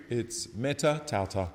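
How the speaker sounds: a light Italian accent on meta tauta. Shown as a demonstration. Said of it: "I want to say that in an Italian accent".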